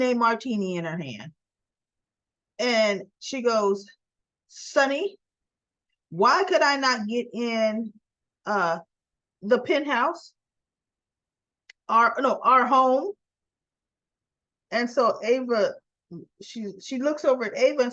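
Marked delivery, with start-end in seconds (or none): 4.5-13.1 retold upset confrontation, mildly acted; indignant complaint. Nina confronting Sonny about lockout.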